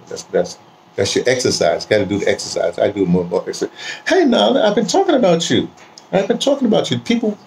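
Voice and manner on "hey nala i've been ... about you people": much higher, sing-song pet voice. Real, not acted. Greeting his dog Nala on camera, high pet talk.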